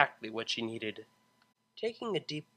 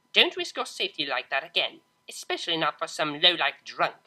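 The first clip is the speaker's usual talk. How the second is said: spat contempt; 2 semitones higher, 6 dB louder than usual. Acted. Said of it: "spat the older mare".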